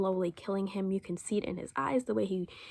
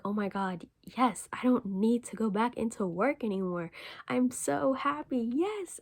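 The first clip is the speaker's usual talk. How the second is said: overjoyed; 3 semitones higher than usual. Retold or imitated. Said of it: "honestly is overjoyed".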